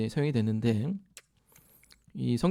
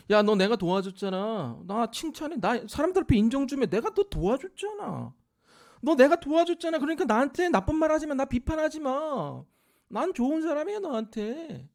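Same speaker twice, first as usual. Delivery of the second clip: demanding benefactor; 9 semitones higher than usual. Retold or imitated. Preacher voicing a giver who demands credit, indignant and pushy. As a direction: insist they owe you praise, rising indignant.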